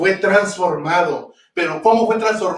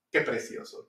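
awed whisper; 6 semitones lower, 13 dB quieter than usual. Real, not acted. Marveling aside in sermon.

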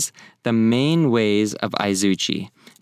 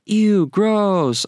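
higher-pitched, stretched cry of disgust; shocked disgust; 11 semitones higher, 4 dB louder than usual. Shown as a demonstration. Teacher explaining a shocked reaction, disgusted. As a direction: exclaim as if grossed out.

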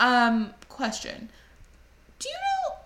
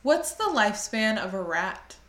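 repeating to voice assistant. Real, not acted. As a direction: clear question for Siri. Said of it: "I'm gonna ask Siri".

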